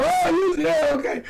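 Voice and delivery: high-pitched imitation of gushing fans; mocking, high-voiced fan excitement; mock hype. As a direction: parody everybody pumping up the team. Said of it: "Everybody's pumping them up".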